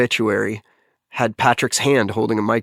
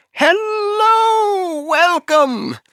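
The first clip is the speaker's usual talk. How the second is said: put-on very high, drawn-out, overwhelmingly warm British accent; 4 dB louder than usual. Recalling a man famous for welcoming newcomers, Patrick's thick British accent. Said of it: "he said hello in this very thick British accent".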